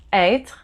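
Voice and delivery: être with an open "eh" for the circumflex E. Shown as a demonstration. Teacher shows French learners the circumflex sound, open E in être. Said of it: "it's the sound E".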